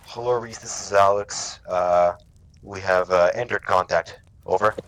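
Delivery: casual, loud, conversational radio call; too friendly, chatty radio message; chatty wrong radio call. Shown as a demonstration. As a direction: chat like a friend on the net. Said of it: "That's not how you do it".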